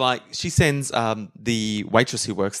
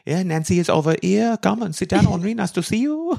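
higher, lightly put-on French barmaid accent; 5 semitones higher than usual. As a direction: welcome a guest with a mock-French accent. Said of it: "my French barmaid accent".

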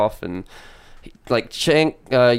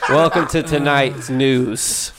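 news anchor. Pretend. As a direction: announce it like a TV anchor. Mock news anchor opening.

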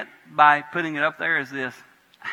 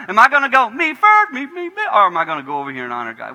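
inner voice; 8 semitones higher, 9 dB louder than usual. Retold or imitated. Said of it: "where we go".

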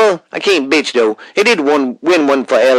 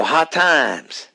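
Dusty Rhodes impression; 3 dB quieter than usual. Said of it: "I don't mean to sound like him".

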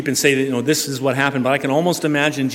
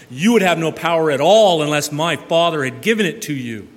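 firm; 2 semitones higher than usual. Retold or imitated. Preacher voicing Jesus to Pilate.

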